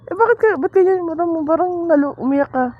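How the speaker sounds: high-pitched, fussing questions; teasing concern. Real, not acted. Mother presses her son on why he cried, high-pitched teasing concern.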